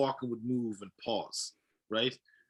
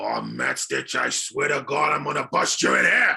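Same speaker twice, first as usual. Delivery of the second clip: loud, gravelly tough-guy voice; 6 dB louder than usual. Explaining how they talked like a rock creature, performing a gravelly Thing voice. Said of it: "he is the gravelly and kind of from Yancey Street".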